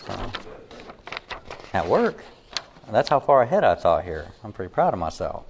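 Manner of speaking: level, even monotone voice. Real, not acted. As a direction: keep every line flat and level. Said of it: "a monotone voice".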